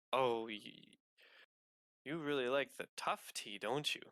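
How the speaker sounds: lightly chipper innkeeper. Acted. Innkeeper teasing a regular about her tea, lightly chipper. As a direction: answer with a touch of chipper cheer. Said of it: "you hear an absolutely chipper voice".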